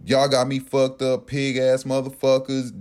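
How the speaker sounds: mildly heated, acted-out rant; mock-indignant tirade with some edge; retold cussing out. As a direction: cuss them out, retelling it. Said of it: "I'm straight out saying".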